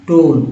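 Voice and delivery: टोन with a clear, held ओ; long o sound. Shown as a demonstration. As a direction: model the o vowel in टोन for learners. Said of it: "ओ हो रहा है".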